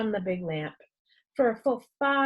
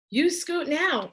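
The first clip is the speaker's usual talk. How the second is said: slow, higher, firmer nurse; a hint of a stern nurse; harsher tone; 8 semitones higher, slower than usual. A narrator's reading. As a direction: shoo him off sharply. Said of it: "insisted Nurse Farthing in a harsher tone".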